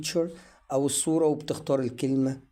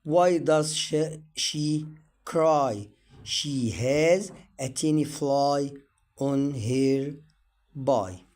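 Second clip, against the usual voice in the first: very slow, word by word, each word stressed; slow reading for learners; much slower than usual. Shown as a demonstration. Teacher reads sentences slowly for students. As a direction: read it out slowly for beginners to follow. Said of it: "نشوف برضو تكست تاني".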